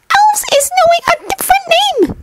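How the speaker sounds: very high squeaky elf voice; Dobby the house-elf. Acted. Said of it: "the creature said".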